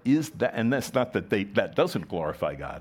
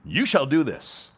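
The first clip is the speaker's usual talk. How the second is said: high, loud order, YOU hit hard; stern command; 6 semitones higher, 5 dB louder than usual. Acted. Preacher mimics how people hear "shall", as a stern order. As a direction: issue it as a forceful command. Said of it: "we see that as an order, a command".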